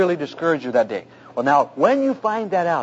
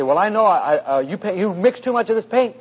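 retold heated back-and-forth, mildly raised; replaying a worked-up customer's protest; worked-up arguing; 3 semitones higher than usual. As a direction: stumble into a mock argument. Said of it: "I'm going at it with him".

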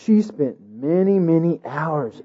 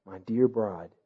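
gentle king; 7 semitones lower, 14 dB quieter, slower than usual. A narrator's reading. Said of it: "the king replied gently".

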